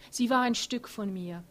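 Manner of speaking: höher und lauter, die Stimme bricht; brechende Stimme. A narrator's reading. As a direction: von Trauer überwältigt, kippt die Stimme. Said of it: "Theas Stimme bricht". (Thea spricht unter Tränen von ihrer toten Tochter)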